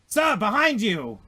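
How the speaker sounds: loud, high, slow alarmed warning; droid's warning shout. Acted. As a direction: yell a warning too late. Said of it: "and he's like".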